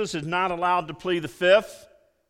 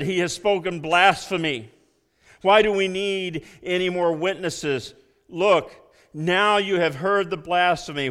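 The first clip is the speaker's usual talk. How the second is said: loud, indignant accusation; outraged high priest; 3 semitones higher, 5 dB louder than usual. Acted. High priest tearing his clothes, loud and outraged. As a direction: denounce him to the council. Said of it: "tore his clothes and said".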